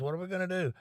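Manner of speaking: retold cousin frets, voice climbing high. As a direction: imitate the cousin's rising alarm. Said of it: "He starts panicking".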